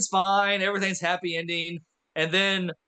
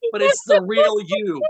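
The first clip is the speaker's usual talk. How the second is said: mock inspirational; 7 dB louder than usual. Mock inspirational life lesson.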